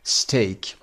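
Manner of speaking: "استیک" said as stek, with the ay sound of take; model pronunciation. Shown as a demonstration. Teacher shows students the exception word, said carefully.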